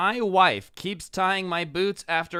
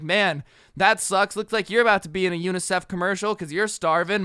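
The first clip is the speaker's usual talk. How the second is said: mocking uncaring boyfriend; 2 semitones higher, 4 dB louder than usual. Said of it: "He's like".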